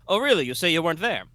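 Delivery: sharp, high mock-incredulous lawyer; prosecutor Roth. GM as prosecutor grilling the witness, high and incredulous. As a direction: needle the witness with fake surprise.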